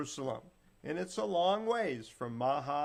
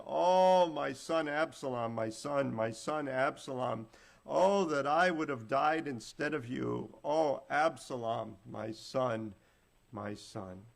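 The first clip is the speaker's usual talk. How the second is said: grieving lament; 4 dB louder than usual. Acted. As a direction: mourn his son, loud at first, then dying away. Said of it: "and wept".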